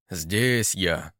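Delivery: gruff, annoyed call from the crowd; grumpy reply. A narrator's reading. Old Varangian answers grumpily from the crowd. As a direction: grumble out your presence. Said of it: "сердитый голос Железнобокова".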